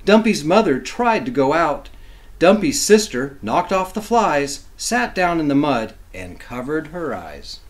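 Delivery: lively, sing-song picture-book reading; reading to children. A narrator's reading. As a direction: read it like bedtime rhyme for kids.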